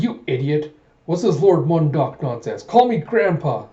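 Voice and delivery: indignant grandfather, rising in pitch; mock scolding. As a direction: scold with mock outrage, building to the end. Grandfather scolding in an acted quarrel.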